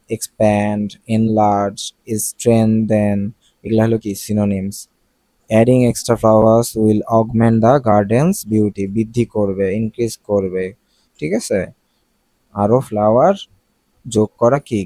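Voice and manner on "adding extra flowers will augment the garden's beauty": very slow, careful English read; slow example read. Shown as a demonstration. Teacher reading an example sentence to students, very slow. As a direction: spell out the sentence slowly for students.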